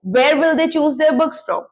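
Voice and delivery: very slow, each word apart; slow model question. Shown as a demonstration. Teacher models a where question, very slow. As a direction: ask it slowly for learners. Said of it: "वो लोग अपनी किताबें कहाँ से चुनेंगे".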